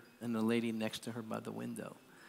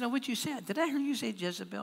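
mock disbelief, pitched up; incredulous seatmate; 10 semitones higher than usual. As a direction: imitate a taken-aback lady pressing for an answer. Incredulous seatmate questions him.

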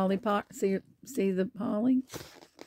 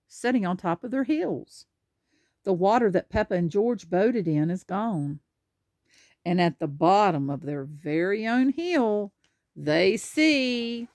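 lively picture-book narration; animated storybook reading; reading to children; 3 dB louder than usual. Acted. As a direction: read it out clearly for a small child. Reads picture book aloud.

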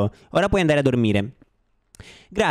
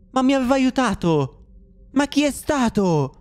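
dismayed cry; 7 semitones higher than usual. Real, not acted. Finds helper character harmed.

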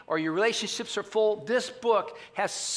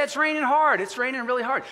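emphatic plain version; 6 semitones higher, 4 dB louder than usual. Shown as a demonstration. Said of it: "You say".

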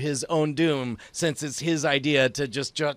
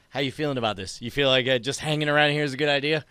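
snide; 2 semitones lower, much faster than usual. Acted. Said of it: "I turn to Justin snidely and say".

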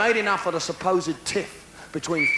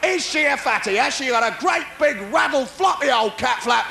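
tabloid gossip; 5 semitones higher than usual. Retold or imitated. Mimics tabloid press.

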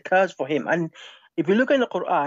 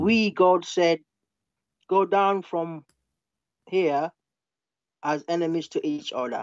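halting, phrase-by-phrase verse reading; slow reading; slower than usual. Shown as a demonstration. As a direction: read slowly with long pauses between phrases. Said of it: "But slowly".

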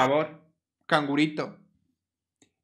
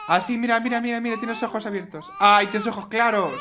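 higher, gushing excitement; delighted; 6 semitones higher, faster than usual. Real, not acted. Player gushes over the newborn, higher.

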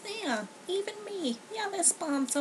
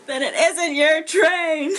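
slow, louder, over-careful enunciation; careful correction; 4 semitones higher, 8 dB louder, much slower than usual. Shown as a demonstration. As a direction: spell it out word by word, proper. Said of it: "I don't know how to say this in an accent".

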